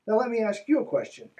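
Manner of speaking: lightly voiced preachy author; mock preacher voice. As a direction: read it like a smug author. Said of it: "Jack says".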